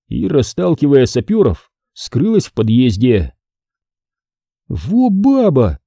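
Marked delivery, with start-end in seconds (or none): 4.7-5.8 high, slow admiring exclamation. A narrator's reading. Jamila marvels at the woman, high and drawn out. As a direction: marvel at her. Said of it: "восхитилась Джамиля".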